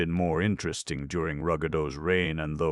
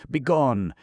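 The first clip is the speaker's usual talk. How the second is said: high, loud banishing yell; furious shout; 10 semitones higher, 9 dB louder than usual. A narrator's reading. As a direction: throw him out with the word Begone. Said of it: "stamping his foot furiously".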